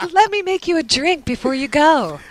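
a hint of old-timey hostess; mock movie housewife. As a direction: play the doting vintage wife. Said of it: "And she'll go".

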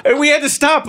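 high squeak of a laugh. Real, not acted. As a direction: break up laughing on the word. Laughing at the mispronunciation.

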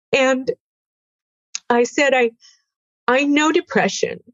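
close to tears. Real, not acted. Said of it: "I'm gonna cry, sorry".

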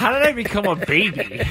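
put-on high baby-like whine; whiny man child. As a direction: whimper like a big baby. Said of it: "You're kinda whining like a baby".

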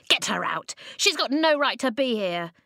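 loud angry yell; rising angry crowd yell; crowd shouting. Acted. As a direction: shout her out. Crowd clamouring.

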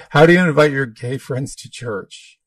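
mock-indiscreet, loud enough for the neighbor; jokingly loud. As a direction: read the question out loudly. Jokes about quiet, then reads loudly.

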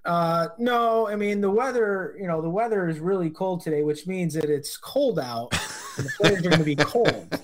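mock sideline reporter, stating the obvious; breathless sideline reporter. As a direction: parody a sideline reporter's empty weather report. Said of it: "Back to you in the booth".

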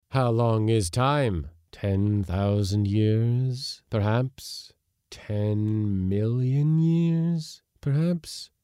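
hollow timeless voice; eerie ancient spirit. Acted. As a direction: muse on aeons. Spirit ponders time.

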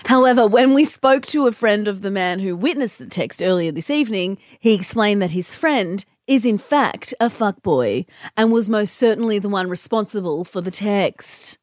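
lightly done news reporter voice; newsreader voice. Pretend. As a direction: read it like a live field report. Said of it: "use your newsreader voice".

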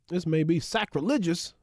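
lightly voiced hot-take pundit, a touch of bravado; hint of Stephen A, mock-serious tease of a hot take; Stephen A impression. Cohost teases a hot take with a light Stephen A impression. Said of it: "That's my Stephen A".

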